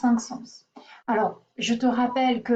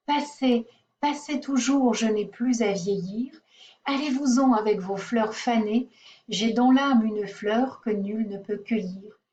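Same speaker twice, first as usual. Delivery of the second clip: measured, even poetry reading; poem recitation. Acted. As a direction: read the verses aloud, pausing at line ends. Reads the poem aloud. (récitation posée d'un poème)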